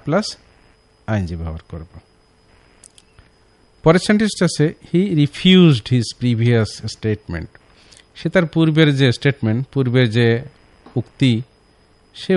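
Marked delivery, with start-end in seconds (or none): 4.9-7.4 slow wrong model sentence. Shown as a demonstration. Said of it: "এটা রিফিউজ না".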